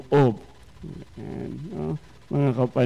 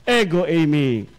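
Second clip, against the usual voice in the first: reassuring Jesus; 5 semitones higher, slower than usual. Acted. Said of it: "kanyang bungad sa kanila".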